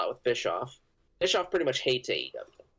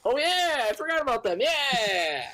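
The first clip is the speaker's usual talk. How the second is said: high mock voice; 12 semitones higher than usual.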